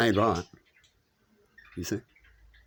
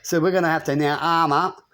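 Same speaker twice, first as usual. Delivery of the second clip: fierce war cry; 5 semitones higher, 3 dB louder than usual. Retold or imitated. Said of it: "They go".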